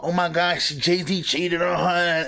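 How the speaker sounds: mock shocked fan. Mimics fans shocked by the album.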